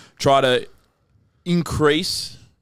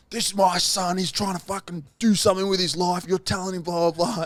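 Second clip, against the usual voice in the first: higher angry dad voice; dad standing up for son; 7 semitones higher than usual. Retold or imitated. Retelling how dad defended him to the agent, higher mock anger. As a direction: play the old man defending his son. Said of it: "My old man just stood up for me".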